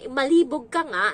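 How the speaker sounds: high, loud retort; talking back. Retold or imitated. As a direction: snap back at her. Retold quarrel on the bus. (pasigaw na sagot sa babaeng Bicolana)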